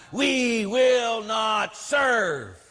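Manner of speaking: very slow, shouted, high defiant chant; imitating a screamed slogan. Retelling the nun to parishioners, mock shouted slogan. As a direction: drag every word out like a rally cry. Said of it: "she screamed".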